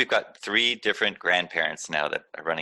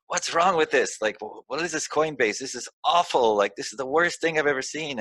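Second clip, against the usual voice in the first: high-pitched mock outrage; mock angry friend; 8 semitones higher than usual. Friend yelling about crypto on the phone, mock complaining. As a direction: whine it like a fed-up beginner. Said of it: "I'd have them yelling at me".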